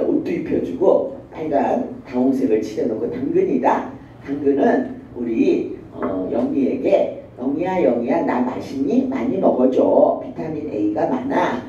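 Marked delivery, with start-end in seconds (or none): 3.1-11.6 talking carrot. Pretend. Teacher showing how a carrot talks to children, lightly voiced. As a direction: play a friendly carrot to a child. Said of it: "당근이 말하는 흉내를 내면".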